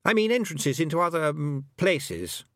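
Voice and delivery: put-on boyish voice sinking from high pitch; boy tailing off. A narrator's reading. Roland describing doorways to other places, tailing off. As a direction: start high, let the boy falter away. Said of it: "his voice tailed off".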